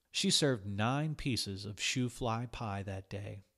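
ordinary delivery, nothing marked

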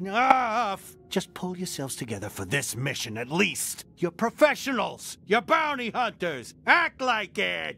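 stern scolding. Acted. Leader scolds the team.

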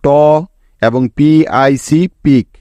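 slow syllables. Shown as a demonstration. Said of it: "spells out syllables slowly".

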